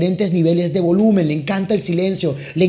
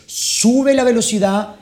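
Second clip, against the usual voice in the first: varying speed demo; 4 semitones higher, slower than usual. Shown as a demonstration. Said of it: "juego con la tonalidad, juego con la velocidad".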